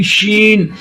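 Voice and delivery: शीन with the श hiss spread out and held; spreading shin sound. Shown as a demonstration. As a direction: let the श of शीन spread and linger. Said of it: "शीन की आवाज फैलती हुई महसूस होती है".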